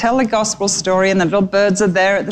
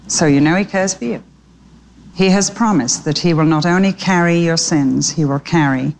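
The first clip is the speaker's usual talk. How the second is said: lower, gentle pastoral plea; tender appeal; 3 semitones lower than usual. Real, not acted. Tender closing appeal to listeners.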